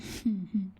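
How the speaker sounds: short closed-mouth chuckle; teasing chuckle. Acted. Amused, teasing the pinned pet.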